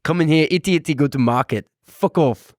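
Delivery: put-on South African accent. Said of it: "We're both getting better".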